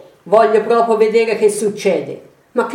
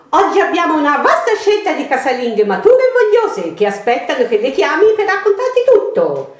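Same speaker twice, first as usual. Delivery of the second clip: high operator voice; 5 semitones higher than usual. Acted. Hammed-up phone line pitch.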